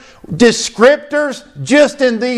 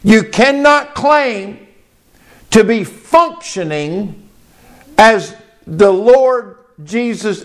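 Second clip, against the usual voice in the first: slower on "cannot claim", then a pause before "to be functioning"; clear, deliberate repeat. Real, not acted. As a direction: spell out "cannot claim" slowly, pausing after it. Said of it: "Y'all hear what I say clearly".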